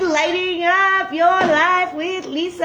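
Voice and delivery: excited. Real, not acted. Excited fireworks exclamation.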